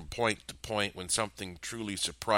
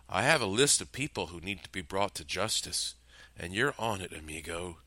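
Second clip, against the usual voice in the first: sad sigh. Acted. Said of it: "he sighed sadly".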